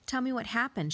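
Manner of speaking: imitating a Swiss therapist's accent, gently; thick Swiss accent. Massage therapist asking what happened, in a mild Swiss accent. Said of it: "in her thick Swiss accent".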